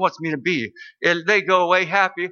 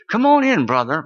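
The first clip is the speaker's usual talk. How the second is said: cheerful welcome; 3 semitones higher, 4 dB louder than usual. Retold or imitated. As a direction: call a visitor in with put-on cheer. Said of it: "not quite saying it quite so cheerful".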